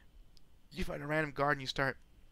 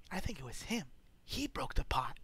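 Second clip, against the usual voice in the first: shrill-sounding noblewoman, pitched way up; 2 semitones higher than usual. Acted. Wife accuses quietly.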